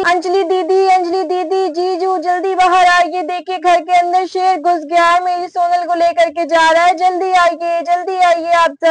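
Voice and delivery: urgent calling, no real volume; lightly acted call for help; mock yelling. Mother calls sister and brother-in-law, mock yelling. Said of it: "बहुत जोर जोर से चिल्लाने लगती".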